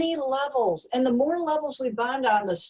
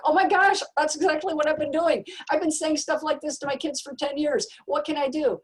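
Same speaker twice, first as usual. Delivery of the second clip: shocked parent; 4 semitones higher than usual. Retold or imitated. Parent at a talk realizing their mistake, mock panic. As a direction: act out a parent suddenly caught out, half-hearted alarm. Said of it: "I always get this deer in the headlights".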